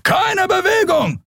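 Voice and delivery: very high, slow yelled command; shouted order. Acted. A guard screaming at the fugitives, slow high shout. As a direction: freeze them with a shout. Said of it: "schrie ein Weißmantel".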